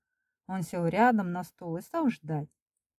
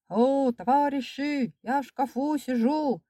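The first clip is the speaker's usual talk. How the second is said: calling out; 7 semitones higher than usual. A narrator's reading. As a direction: stretch the cry out for anyone to hear. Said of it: "Я опять".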